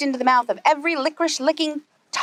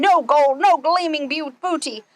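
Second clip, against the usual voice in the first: higher, raised grumble; lightly voiced pirate cursing his luck; angry pirate; 5 semitones higher than usual. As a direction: spit it out in frustration. Pete furious.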